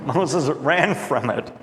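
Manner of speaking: laughing, slowed down; slow amused repeat. Shown as a demonstration. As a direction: savour the line with a chuckle. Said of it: "I love that line".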